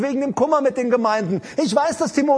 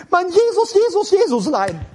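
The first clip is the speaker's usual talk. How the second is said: mock a tearful pious prayer; hammed-up pious bawling; pious whining; 7 semitones higher than usual. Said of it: "Das ist frommes Geplärre".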